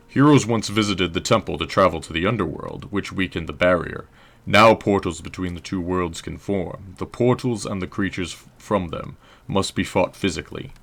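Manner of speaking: stoic historian with British tinge; lightly British lore-keeper voice; drifting British accent. Acted. Historian explaining the portals, stoic with slight British accent. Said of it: "my voices drift in and out of Britishness".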